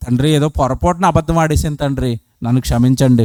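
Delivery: lightly voiced sinner asking pardon; meek confession.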